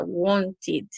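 "wanted" slowly, with a full second syllable "-tid"; teacher modelling "wanted" as want-id; ID ending. Shown as a demonstration. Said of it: "al final será id".

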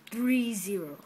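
spelling it out with a touch of a Chinese accent. Real, not acted. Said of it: "put that in such a Chinese accent".

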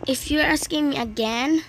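annoyed second telling; impatient repeat. Real, not acted. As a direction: say it again with mild impatience. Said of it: "I'm saying this the second time".

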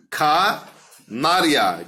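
Kanarya kelimesini yavaşça uzatarak; yavaş dikte eder gibi; slow dictation. Shown as a demonstration. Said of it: "Kanarya'yı hecele". (yavaşça, dikte ederek)

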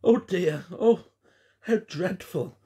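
high-pitched cry of dismay; dismayed exclamation. A narrator's reading. Gwen recoils at the filthy puppet, dismayed exclamation. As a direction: exclaim in shock. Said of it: "exclaimed Gwen".

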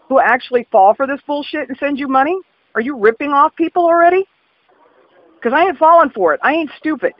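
rising, heated confrontation; angry caller exposing a phone scam; building indignation. Real, not acted. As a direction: call out the scam, getting hotter. Caller confronts scammer, rising anger.

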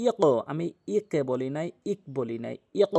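ইক with the final ক bounced upward, given a push; ইক said with an echoing pushed ক; qalqala bounce. Shown as a demonstration. Teacher showing qalqala to students, with a bounce. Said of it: "কেন এরকম sound ধাক্কা দিলাম".

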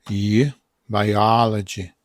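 "biology" slowed, sound by sound; careful pronunciation demo. Shown as a demonstration. Teacher showing viewers how biology sounds, slow careful pronunciation. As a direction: stretch "i-" apart, then say "biology" slowly.

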